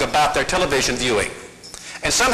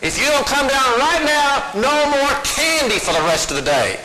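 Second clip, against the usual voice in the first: higher, strained mother's warning, pushed up; the threat again, pitched much higher as she loses it; shriller mock threat; 7 semitones higher than usual. Mother escalates her threat to ignoring daughter, higher and strained. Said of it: "Sarah just ignored her".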